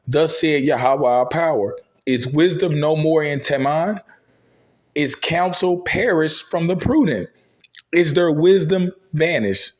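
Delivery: slow, measured scripture reading. Acted. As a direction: read it like holy writ. Reads scripture aloud.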